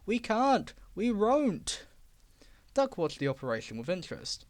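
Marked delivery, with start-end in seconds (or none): 0.1-1.9 higher, louder stubborn whine; stubborn trucks. Acted. Old trucks refusing Diesel, stubborn whine. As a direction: dig in and refuse.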